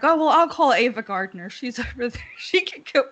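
lightly voiced Hollywood mother; airy mother voice. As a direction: toss off the solution lightly. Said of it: "her mom's like".

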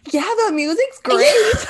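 high, loud party shout over the music; oblivious club yell. Retold or imitated. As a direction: shout it cheerfully, hearing nothing.

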